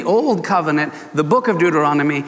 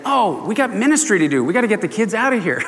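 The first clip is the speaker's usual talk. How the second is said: mock-important grown-ups, higher and hurried; fussy adults; 4 semitones higher than usual. Adults shooing kids away from ministry, mock fussing. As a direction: imitate adults hustling children away. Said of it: "the adults are always saying".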